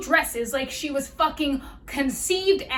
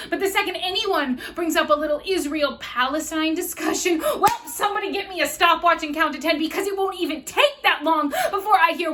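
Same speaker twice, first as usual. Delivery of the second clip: loud, quick sarcastic rant; worked-up, mocking exasperation; exasperated tirade; 3 semitones higher, 4 dB louder than usual. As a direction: race through the accusation, getting louder.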